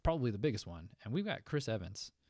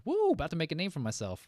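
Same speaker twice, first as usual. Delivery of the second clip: lightly imitated Gambit accent, higher and louder; 8 semitones higher, 9 dB louder than usual. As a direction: whoop it out like a playful take on the Gambit accent. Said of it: "tripling down on the Gambit accent".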